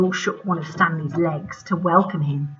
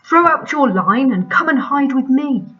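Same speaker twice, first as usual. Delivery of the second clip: put-on old spider voice; 6 semitones higher, 6 dB louder than usual. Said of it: "mumbled Stanley".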